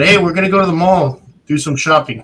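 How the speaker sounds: uncle's voice. Retold or imitated. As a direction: lightly play the uncle announcing the outing. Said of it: "So he said".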